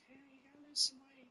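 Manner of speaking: mock nagging wife. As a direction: needle your husband about his weight. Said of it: "My wife is starting to do it to me".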